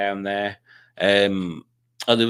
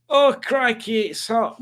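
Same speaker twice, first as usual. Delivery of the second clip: much higher, strained moan about the heat; mock complaint; 11 semitones higher, slower than usual. Walking through a field in baking sun, high whining moan. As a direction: whine it high like you're melting. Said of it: "in baking sun like this".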